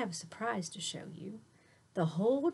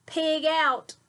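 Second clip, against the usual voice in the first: loud, high whoop of glee; excited cheer; 7 semitones higher, 6 dB louder than usual. Acted. Teacher cheering the kids on, gleeful shout. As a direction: cheer it like a greedy pig.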